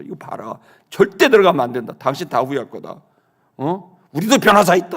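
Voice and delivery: retold threat to the police, firming up at the end; stern mock threat, starting under the breath; intimidating warning. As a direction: warn them off, trying to scare them. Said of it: "겁주고 막 했더니".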